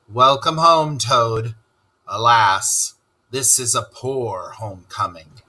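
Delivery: solemn. Acted. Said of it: "He came solemnly up".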